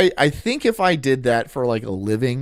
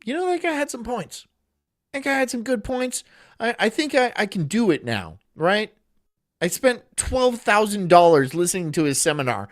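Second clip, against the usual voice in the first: gullible client; 4 semitones higher than usual. Retold or imitated. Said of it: "they'll be like".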